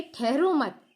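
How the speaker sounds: ठहरो मत run together, then stop after मत; ठहरो मत as one unit. Shown as a demonstration. Teacher explaining it signals going, ठहरो मत said as one unit. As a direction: keep मत tied to ठहरो. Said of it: "जाने का संकेत दे रहे हैं".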